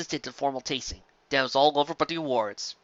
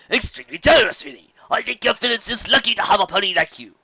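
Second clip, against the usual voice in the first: higher, louder, gracious and flattering; courtly gentleman pony; 7 semitones higher, 5 dB louder than usual. Acted. Fancy Pants flattering Carrot Top, raised and gracious. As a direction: lay the praise on politely.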